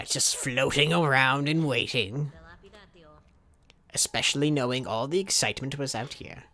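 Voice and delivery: lightly acted shopkeeper, drawn-out at first; lightly voiced game character. Rescued character inviting player to gamble, lightly voiced role. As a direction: play a put-upon host pitching games of chance.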